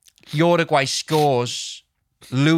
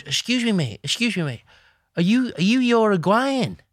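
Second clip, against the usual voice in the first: mock-upset, high-pitched challenge; high, indignant questioning; 8 semitones higher than usual. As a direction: imitate an affronted mate demanding answers. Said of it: "he was so upset about the score".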